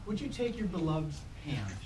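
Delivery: slow, solemn officiant address; ceremonial reading. Acted. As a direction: speak it like a wedding blessing. Officiant's ceremonial hands blessing.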